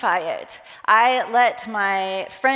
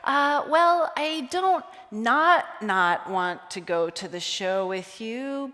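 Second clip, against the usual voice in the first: lightly hammed-up waffling no; convoluted refusal; slower than usual. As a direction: stall and tangle the no on purpose. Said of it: "where I would go".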